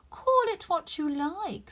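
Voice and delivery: slow, drawn-out knowing cat; sly cat taking its time; lazy Cheshire Cat. A narrator's reading. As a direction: savour each word like a grinning cat.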